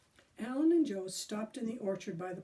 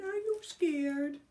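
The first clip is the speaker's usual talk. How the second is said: taunting; 6 semitones higher, 4 dB louder, slower than usual. A narrator's reading. Billy taunting the boys.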